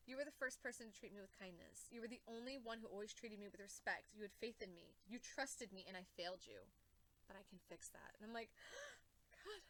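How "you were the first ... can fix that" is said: quoting Damian. Retold or imitated. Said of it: "He said".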